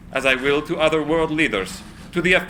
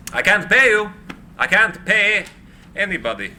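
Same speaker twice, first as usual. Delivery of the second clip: higher and louder, a desperate cry of helplessness; anguished outburst; 5 semitones higher, 3 dB louder than usual. Acted. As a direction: break out in anguish over the debt. Tesla distraught, losing his staff.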